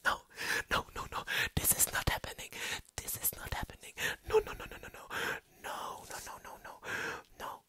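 frantic whispered denial; whispered disbelief. Real, not acted. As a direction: whisper it in stunned shock.

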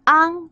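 昂 drawn out slowly as "ang"; pronunciation demo. Shown as a demonstration. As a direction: model 昂 with a long, clear "ang". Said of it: "它会念昂".

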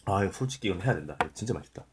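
chewing while talking; talking between bites of soup; mouth full. Real, not acted. Seen 1: Holds spoonful of seaweed soup; mouth moves as if chewing between words.

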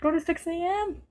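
high-pitched, rising begging; high, drawn-out plea of a losing player; desperate pleading. Real, not acted. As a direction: beg for it, pitch climbing with each please. Desperate plea as battery dies.

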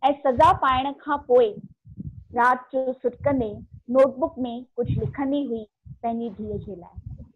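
measured verse reading with deliberate pauses; poem recitation. Acted. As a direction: recite it line by line, letting each phrase land. Recites her own poem. (कविता पाठ, ठहराव सां)

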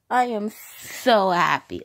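calm, sincere thanks to viewers. Real, not acted. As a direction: let the happiness sink in. Repeats happy line twice.

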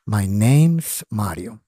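slow demo with a clear S ending "name's"; final S pronounced. Shown as a demonstration. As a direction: lean on "name's", sounding its final s. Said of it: "Tiene que pronunciarle esa S al final".

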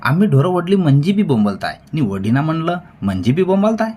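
high, loud indignant protest; rising heated tone. A narrator's reading. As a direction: climb in pitch as you throw it back at them. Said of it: "Hariba चढत्या सुरानं म्हणाला".

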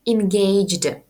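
Engaged, clear in-GAYJD, falling; model word repeated. Shown as a demonstration. Teacher repeats Engaged for students to copy. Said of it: "це engaged".

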